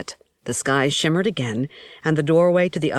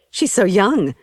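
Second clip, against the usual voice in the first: higher and louder, bursting out; blurted; 5 semitones higher, 5 dB louder than usual. A narrator's reading. Girl sees the dead priestess young again, blurting in awe. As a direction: let it slip out before thinking. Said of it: "I blurted".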